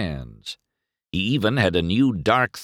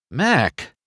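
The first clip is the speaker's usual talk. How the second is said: dazed; 6 semitones higher than usual. A narrator's reading. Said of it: "said in a dazed voice".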